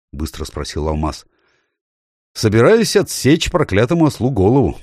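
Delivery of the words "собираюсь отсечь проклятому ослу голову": grim, menacing king's vow; terrible voice. A narrator's reading. Тириан грозно обещает отсечь ослу голову. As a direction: threaten to behead the donkey. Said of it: "произнёс Тириан страшным голосом".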